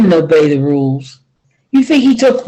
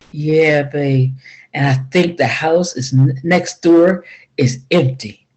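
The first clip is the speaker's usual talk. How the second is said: gentle; 4 semitones lower than usual. Acted. Zed holds his wife, gentle and low.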